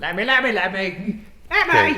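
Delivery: slow, drawn-out ghostly calling. Shown as a demonstration. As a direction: moan the name like a ghost. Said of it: "I'm gonna do the ghost noise again".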